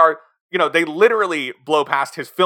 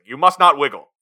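1 mock Colonel Parker line; 4 dB louder than usual. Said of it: "Tom Hanks as Tom Parker uses".

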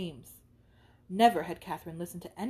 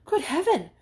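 higher, louder startled cry; cried out; 7 semitones higher, 8 dB louder than usual. Acted. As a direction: gasp it in shock. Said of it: "she cried out".

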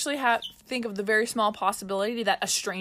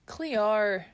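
"Cleo" with a drawn Aussie ending; Australian accent; 3 dB quieter than usual. Shown as a demonstration. Another go at the word, Australian accent. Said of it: "say something about Cleo".

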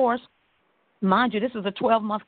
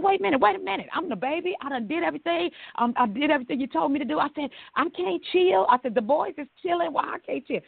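mock whiny protest; 7 semitones higher than usual. Retelling her protest to her mother.

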